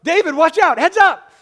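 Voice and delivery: high, loud shout across the dock; sharp cry of heads up; urgent warning yell. Retold or imitated. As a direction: yell to warn a friend of danger. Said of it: "And so I yell".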